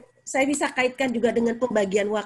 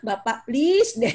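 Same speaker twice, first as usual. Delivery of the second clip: playful plea; 3 semitones higher, slower than usual. Real, not acted. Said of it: "pleading to fathers".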